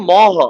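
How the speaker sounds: "ম হ" as mo then ho, two separate sounds; pronounced order. Shown as a demonstration. Teacher explains the spoken order of sounds, pronounced separately. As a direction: spell out "ম হ", m before h. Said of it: "উচ্চারণে".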